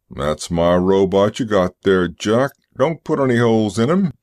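firm booming trucker voice; booming driver. Acted. Driver claiming his robot from policeman, booming voice. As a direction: speak up in a big booming voice. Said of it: "It was a booming voice".

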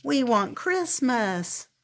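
a drawn-out, falling "Christmas"; a hint of a whiny wail; mild wail. Trolls wailing for Christmas, mildly whiny. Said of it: "they wailed".

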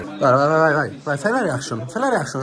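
excited urging cheer; rapid vai vai chant; breathless italian goal commentary. Real, not acted.

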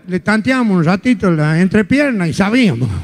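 low, lightly voiced little old lady; a hint of a doddering grandmother. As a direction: talk like a chatty grandma.

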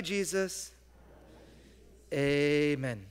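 put-on slow prayer with pauses for children to repeat; slow, paused call-and-repeat prayer. Shown as a demonstration. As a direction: lead the kids line by line in prayer. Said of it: "Repeat after me".

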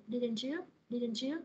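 didn't you said with the pitch rising on you; rising tag question. Shown as a demonstration. Teacher explaining a real question, rising on you. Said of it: "ngữ điệu nó sẽ đi lên là nó sẽ nhấn vào chữ you".

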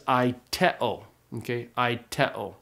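aiteo starting on a bare vowel, no H; no aspiration at the front of aiteo; smooth breathing. Shown as a demonstration. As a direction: begin aiteo straight on the eye sound. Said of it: "but it's a smooth".

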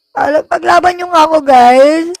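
loud plea, last word pushed; shouting into mic. Real, not acted. Streamer rallying viewers to fight for her, loudly. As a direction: call out too close to the mic. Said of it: "huwag ka sumigaw sa mic".

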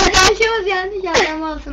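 talking through laughter; words breaking into giggles; laughing. Real, not acted. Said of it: "gülmekten ölüyor".

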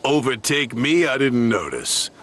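huffy. Acted. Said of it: "Gordon huffed".

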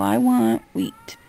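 slow, drawn-out low demonstration; low, deliberate example of ordering; model order. Shown as a demonstration. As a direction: spell the order out slowly, dropping the pitch. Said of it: "You need to come up to me and go".

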